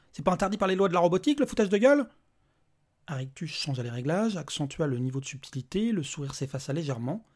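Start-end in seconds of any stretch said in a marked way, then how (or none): 0.1-2.1 rising, louder indignant protest; indignant outburst. Acted. Angry father mocks the robot, indignant. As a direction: Petri scoffs at the robot, loud and high.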